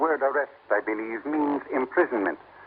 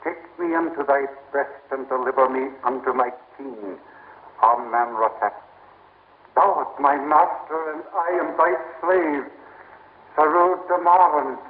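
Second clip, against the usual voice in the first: solemn invocation; 2 semitones higher than usual. Acted. Priest chants prayer to Isis.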